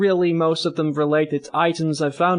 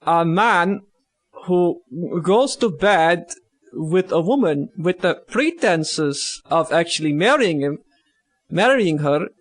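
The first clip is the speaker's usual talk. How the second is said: put-on broken-English Russian accent, slipping in and out; loosely held jokey Russian accent; bad Russian accent. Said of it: "So, in Russian voice".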